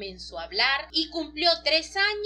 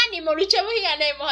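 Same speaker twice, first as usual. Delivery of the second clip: put-on louder child cheer, echoing her father; cheering little girl; 4 semitones higher, 5 dB louder than usual. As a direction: chant it back like an eager little girl. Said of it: "Y la niña".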